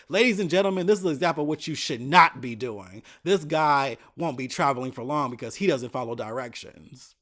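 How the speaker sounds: hammed-up guard making an example of him; mock public announcement. TSA officer shames him before the line, loud mock announcement.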